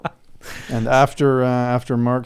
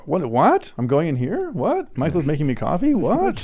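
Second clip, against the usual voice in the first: surprised; 4 semitones higher than usual. Retold or imitated. Mock surprised reaction, retold.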